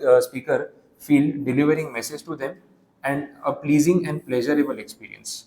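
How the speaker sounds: slow, deliberate reading of the slide; unhurried dictation pace. Shown as a demonstration. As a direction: read it word by word for notes. Reads definition slowly.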